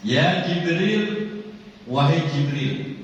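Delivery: high, slow call to Jibril; voicing a divine call. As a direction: summon Jibril with authority. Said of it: "kata Allah nih". (memanggil Jibril dengan agung)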